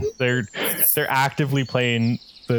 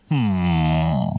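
sneaky hum; 7 semitones lower than usual. Acted. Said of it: "just kinda goes".

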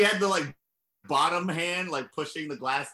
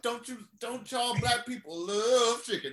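mock Italian-American accent; 9 semitones higher than usual. S0 mocking Tony offering chicken, high Italian-American accent. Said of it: "I don't feel bad doing this accent".

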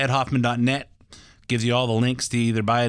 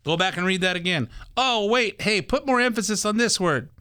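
higher, fussy mock correction; imitating engineer; 9 semitones higher than usual. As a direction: nitpick like the studio engineer. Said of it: "your assistant are saying".

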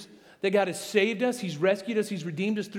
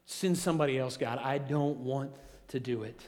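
softer, sulky mock reluctance; reluctant Moses; 4 semitones lower, 5 dB quieter than usual. Moses refusing God's mission, sulky quiet mock whine. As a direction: mumble it like a reluctant kid. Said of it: "Moses just says".

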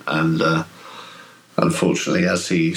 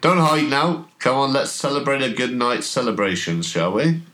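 younger, less husky villain calling out; higher, lilting voice coaxing someone out of hiding; rejuvenated man's teasing invitation, pitched up; 6 semitones higher than usual. Acted. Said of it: "it sounds less husky".

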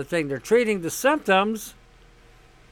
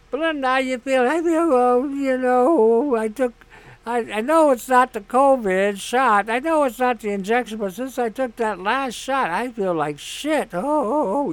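higher, mock-sickly patient voice; a sick patient whining to the doctor after her shot; imitating Belinda; 4 semitones higher than usual. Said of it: "'cause that's how they talk".

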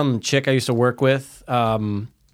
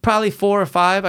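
lightly imitated Spanish accent, higher pitch; 7 semitones higher than usual. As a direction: mimic the Spanish coworker in a raised voice. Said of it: "if I do the accent, she's Spanish".

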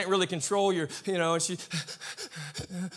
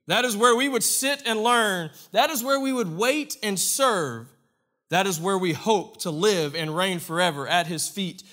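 reading Spurgeon; 4 dB louder than usual. Acted. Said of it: "Notice what Spurgeon says".

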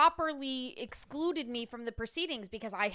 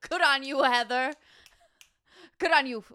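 cheering on; 7 dB louder than usual. Retold or imitated. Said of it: "I'm like".

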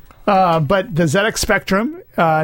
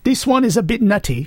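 lightly attempted British accent, slightly higher; attempted Tim voice; 4 semitones higher than usual. Co-host reluctantly fills in for absent Tim, shaky British impression. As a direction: have a half-hearted go at a British co-host's accent. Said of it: "I can't do Tim's voice".

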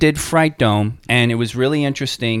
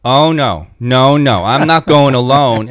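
scared friend; 6 dB louder than usual. Retold or imitated. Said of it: "she's like".

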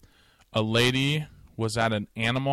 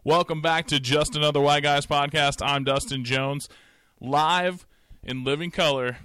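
ringmaster; 2 semitones higher, 3 dB louder than usual. Pretend. Podcast intro announcer style.

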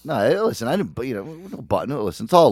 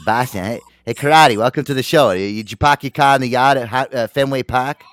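put-on, hammed-up Boston accent; 5 dB louder than usual. Host mimicking the Affleck brothers for the show, broad Boston accent. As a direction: greet them in a mock Boston accent. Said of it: "they got that Boston accent".

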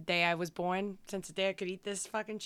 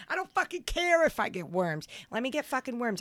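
defiant outburst; 4 semitones higher than usual. Real, not acted. Defiant rant about raw steak.

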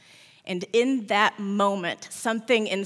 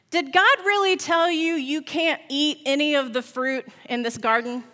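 basilisk; 5 semitones higher than usual. Acted. Serpent questions Eve.

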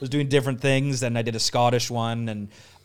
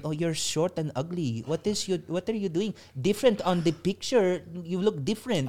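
higher-pitched mock woman's voice; imitated mail-order bride; 5 semitones higher than usual. Spoofing a dating-show bride looking at her suitor, mock complaint. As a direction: put on a lilting, complaining bride. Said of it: "she's looking at him and going".

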